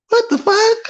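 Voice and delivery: very high, stunned "what the fuck"; incredulous high-pitched squeak; shocked. Retold or imitated. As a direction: squeal it in disbelief. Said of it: "I'm like".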